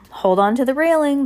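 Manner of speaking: high, lively sailor voice firing off jumbled orders; a cheerful, scatterbrained captain contradicting himself; scattered cheerful captain. Acted. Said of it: "the voice continued".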